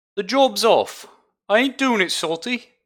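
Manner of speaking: put-on dwarf voice, shrill, very high, very loud, booming. Voicing the Fisher Dwarf Ollie calling off a job: put-on voice for Ollie. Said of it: "the proper voice for Ollie".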